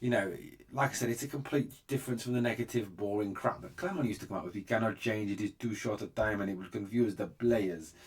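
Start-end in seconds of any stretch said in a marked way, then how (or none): 4.5-7.9 put-on light, hammy Belgian French accent; a hint of broken French Belgian accent. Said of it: "for the bad French Belgian accent there".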